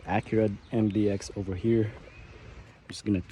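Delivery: hoarse from a cold; rough under-the-weather voice; sick voice. Real, not acted. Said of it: "Excuse my voice, I'm a little sick right now".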